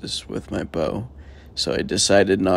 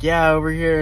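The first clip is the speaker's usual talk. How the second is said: Boston guy calling out, higher and louder; Boston accent; 5 semitones higher, 6 dB louder than usual. Retold or imitated. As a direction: imitate a Boston local answering. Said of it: "thick as Bo-, Boston accent".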